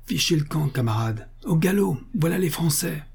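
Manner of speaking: high-pitched mock shout, no real volume; crying out. A narrator's reading. Alsatian warning enemy troops in passing, mock shout. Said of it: "Il leur cria en passant".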